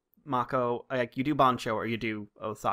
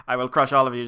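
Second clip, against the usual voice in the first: menacing declaration; 9 dB louder than usual. Retold or imitated. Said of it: "goes from".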